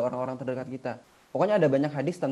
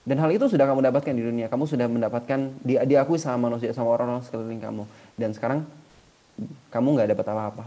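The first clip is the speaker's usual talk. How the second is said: louder, stern divine judgment; stern verdict; 5 dB louder than usual. Acted. God condemning the man who gave for fame, loud and stern. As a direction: pronounce the sentence with force.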